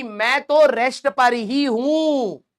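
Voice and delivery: slow, self-important drawl; mock smug. Teacher imitating a narcissist, slow and smug. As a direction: stretch it out like someone full of himself.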